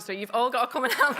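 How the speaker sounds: quick, laughing mock demand; joking plea. Candidate teasingly begs the audience to campaign, laughing. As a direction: rush it out through a laugh, teasing the crowd. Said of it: "I'm joking".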